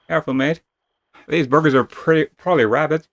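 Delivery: a mild gruff warning to the party; urgent companion caution; character warning. Acted. Party member warns of rabid cats.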